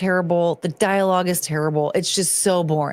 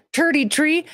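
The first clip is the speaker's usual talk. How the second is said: lightly put-on fake English accent, pitched higher; mock English accent; 7 semitones higher than usual. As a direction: toss off "turdy tree" in a jokey fake English accent. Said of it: "what would they think an English accent sounds like".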